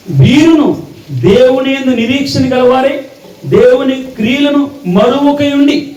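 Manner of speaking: slow, lifted solemn reading, rising toward the end; scripture reading. Acted. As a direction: intone the verse like a preacher over music. Reads scripture over music.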